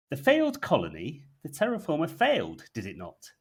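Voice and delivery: hammed-up intrigue, building. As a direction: push the curiosity further. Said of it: "intrigued and leans forward a bit more".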